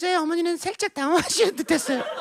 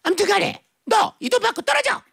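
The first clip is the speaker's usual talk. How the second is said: pitched-up brusque order; melodrama mother; 4 semitones higher than usual. Acted. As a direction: dismiss her like a soap-opera mother. Acted mother's ultimatum.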